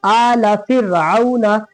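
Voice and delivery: फ़िरऔना with a light r, chanted slowly; thin ra. Shown as a demonstration. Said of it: "पतला पढ़ेंगे".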